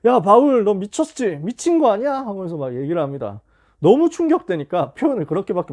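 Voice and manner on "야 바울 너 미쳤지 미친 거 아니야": high, loud mock yell at Paul; retold shout. Festus yelling at Paul that he is mad, mock shout. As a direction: Festus bursting out in a hammed-up shout. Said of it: "베스도가 소리를 질러요".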